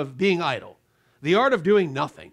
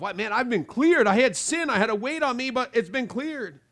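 joyful relief; 4 semitones higher than usual. Pretend. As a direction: announce freedom from the weight. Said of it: "You'll see a clearing of yourself".

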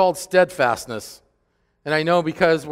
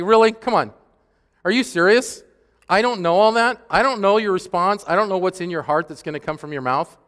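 high, louder mock-incredulous God; sarcastic God voice; 6 semitones higher, 4 dB louder than usual. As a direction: play God scoffing at a silly excuse. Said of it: "He's like".

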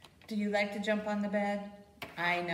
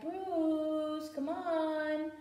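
geese calling; 6 semitones higher, much slower than usual. Pretend. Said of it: "They're like".

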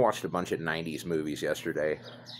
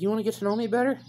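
much higher, louder incredulous echo; mock disbelief; 5 dB louder, faster than usual. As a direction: throw it back in disbelief.

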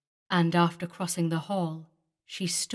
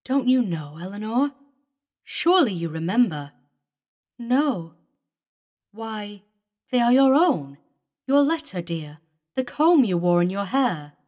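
put-on pleading old lover; 2 semitones higher, 6 dB louder than usual. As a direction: urge her to remember her keepsakes. David pleads with Eleanor.

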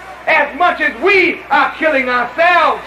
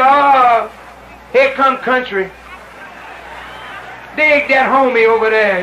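lightly voiced dismissive city homie, lower pitch; mock a northerner looking down on country folk; mocking northern brother; 5 semitones lower than usual. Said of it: "He said".

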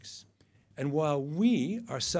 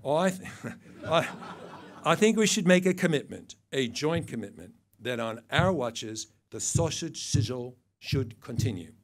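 put-on laughing New Zealand accent try; 3 semitones higher, 5 dB louder than usual. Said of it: "I can't do her accent".

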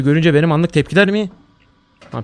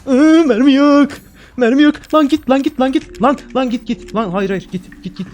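high, loud panicked shrieks, much higher and louder; panicked shrieking; 9 semitones higher, 4 dB louder, slower than usual. Real, not acted. Out of bullets with a monster on him, panicked high shrieks. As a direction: screech in real panic as the monster closes in.

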